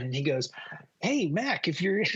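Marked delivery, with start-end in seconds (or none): 1.0-2.0 high-pitched pilot voice; pilot impression. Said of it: "that's how he talked".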